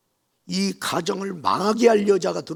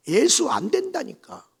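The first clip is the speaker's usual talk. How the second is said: much higher, louder shout; shouted refusal; 13 semitones higher, 8 dB louder than usual. Retold or imitated. Mother-in-law shouting no at the bride, loudly. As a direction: refuse her flatly.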